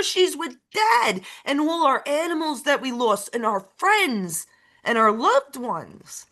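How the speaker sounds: real emotional near-shout; emotional outburst. Real, not acted. Passionate outburst about the dead.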